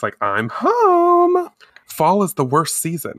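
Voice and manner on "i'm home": high, drawn-out homecoming call; high-pitched acted call. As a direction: sing it out to announce your arrival. Character arrives home, calling out.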